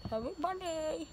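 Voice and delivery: cheeks stuffed with grapes; mumbled through grapes; mouth full. Real, not acted.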